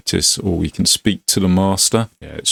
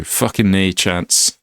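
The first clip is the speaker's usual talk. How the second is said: put-on Scottish accent; slower than usual. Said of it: "Sorry about the Scottish accent".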